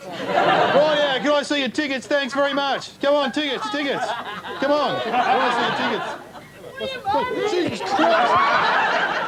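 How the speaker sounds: high, squeaky official demanding tickets; silly high inspector voice. Acted.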